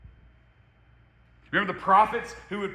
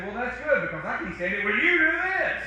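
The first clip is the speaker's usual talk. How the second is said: 1 tart comeback; 6 semitones higher, 3 dB louder than usual. Shown as a demonstration. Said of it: "And they say".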